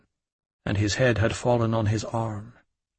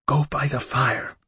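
commanding; 3 semitones higher than usual. A narrator's reading. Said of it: "she commanded".

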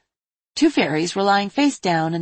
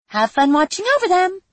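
laughing; 13 semitones higher, 5 dB louder than usual. Acted. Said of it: "she laughed".

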